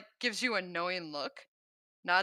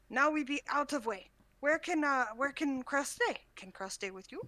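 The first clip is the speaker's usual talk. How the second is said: put-on a raised, childlike creature voice; broken-speech creature voice; 6 semitones higher than usual. Krell speaks broken to NPC.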